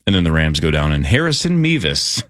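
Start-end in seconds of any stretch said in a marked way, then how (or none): 1.0-2.2 audible smile. Real, not acted. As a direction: savour the name with a higher lilt. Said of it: "I cannot say without smiling".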